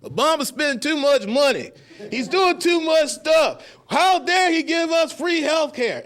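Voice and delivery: put-on high, loud, slow hillbilly accent. Comic mocking Tea Party voters in a loud, high, slow redneck accent. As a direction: ham up a Southern redneck accent. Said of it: "use a proper accent".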